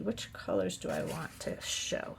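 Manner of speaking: ordinary talk, nothing marked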